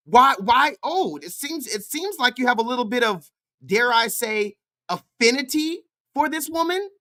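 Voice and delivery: rising, mock-innocent insinuation; teasing accusation posed as a question; sarcastic questioning. Real, not acted.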